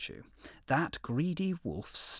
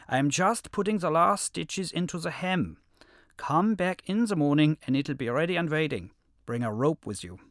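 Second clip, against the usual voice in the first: wolf voice; 5 semitones higher, 6 dB louder than usual. A narrator's reading. Wolf tricks the lion.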